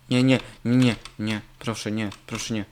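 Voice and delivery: loud desperate no, no, no; panicked pleading. Real, not acted. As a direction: beg the car not to crash. Car about to crash, pleading.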